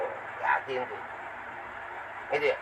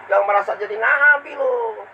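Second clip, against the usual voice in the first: stern scolding; 6 semitones higher, 3 dB louder than usual. Acted. Preacher scolds a rude listener.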